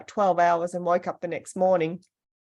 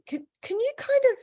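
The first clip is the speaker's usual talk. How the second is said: masseur quoted. Retold or imitated. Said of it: "she goes".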